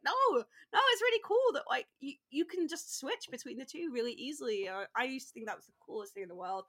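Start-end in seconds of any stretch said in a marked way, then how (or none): 0.1-4.7 high, loud, insistent protest; eager reassurance. Retold or imitated. Cheering an embarrassed bilingual friend, eagerly reassuring. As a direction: rush to convince them, full of admiration.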